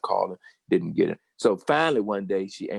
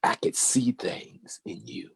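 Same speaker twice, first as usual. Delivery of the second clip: whispered tenderness; 3 semitones higher, 3 dB quieter, slower than usual. Retold or imitated. Teacher's tender confession.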